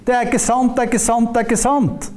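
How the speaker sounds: high-pitched, insistent denial; imitating a protesting heckler; mock crying out. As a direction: chant the denial over and over without a break. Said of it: "det er vantrosånden som roper det".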